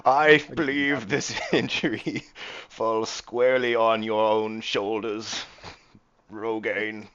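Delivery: pompous in-character rebuke; scornful captain. Acted. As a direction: lay the blame on him with force. Game master plays scornful captain.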